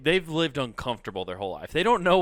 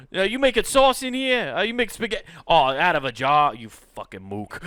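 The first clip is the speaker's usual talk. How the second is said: a hint of a mobster; 2 semitones higher than usual. Mobster berating sauce.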